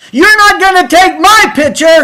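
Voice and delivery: mock woman screaming at full volume, high and shrill. Retelling a half-dressed woman's reaction in a dressing booth: imitating a woman screaming. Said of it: "When she screamed".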